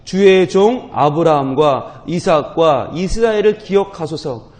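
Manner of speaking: loud, slow group reading of scripture. Real, not acted. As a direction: read the verse together, loud and steady. Congregation reads verse aloud.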